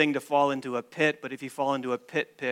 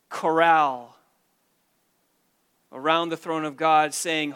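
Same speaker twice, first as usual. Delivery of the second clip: louder, driving preacher delivery; fervent preaching; 2 semitones higher, 4 dB louder than usual. Real, not acted. Preacher describing the heavenly chorus to the congregation, fervently. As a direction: preach it with rising excitement.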